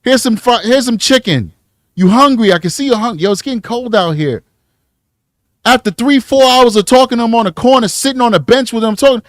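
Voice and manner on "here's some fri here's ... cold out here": soft, quick, friendly street voice; butter her up with food offers; smooth predator. Retold or imitated. A predator offering a runaway food, soft smooth voice. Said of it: "The sophisticated predators is just gonna talk".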